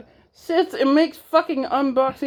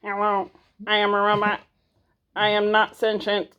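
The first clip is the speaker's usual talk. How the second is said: robot voice; 3 semitones lower than usual. Pretend. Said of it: "It's more like".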